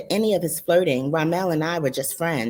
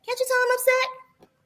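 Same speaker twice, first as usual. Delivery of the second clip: high, breathy whisper; upset whisper to her friend. Acted. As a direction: hiss it under your breath.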